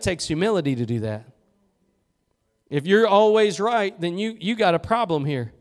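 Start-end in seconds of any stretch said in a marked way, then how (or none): none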